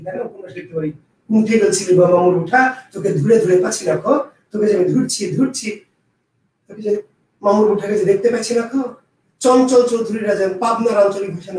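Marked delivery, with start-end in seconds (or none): 1.3-5.7 demonstrating Rajshahi regional speech; Rajshahi dialect. Shown as a demonstration. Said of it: "যেমন আমি রাজশাহী ভাষায় যদি নাটক লিখি". 6.7-8.8 sample drama line in Rajshahi dialect. Shown as a demonstration. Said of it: "যেমন আমি রাজশাহী ভাষায় যদি নাটক লিখি".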